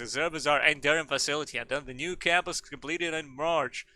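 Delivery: lightly put-on formal speechmaker voice; orating headmaster. Headmaster thanking the architect, lightly orating. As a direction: read it out as a ceremonial address.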